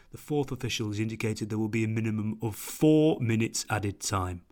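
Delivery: lightly voiced deep stadium announcer; echoing stadium announcer. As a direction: boom it out like the Anfield announcer. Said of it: "such a stadium announcery voice".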